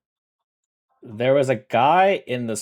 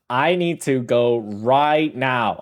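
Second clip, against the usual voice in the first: slow, drawn-out mock urgency; retold urgency; slower than usual. Streamer quoting own tweet about the game, slowly emphatic. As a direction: stretch the words out for emphasis.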